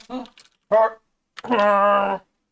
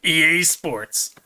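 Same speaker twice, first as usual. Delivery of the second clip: sports announcer slogan; slower than usual. Retold or imitated. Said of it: "how the slogan goes".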